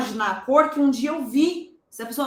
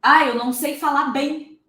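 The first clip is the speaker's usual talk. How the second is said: whiny mock complaint; 3 semitones higher, 5 dB louder than usual. Mocking complaining student.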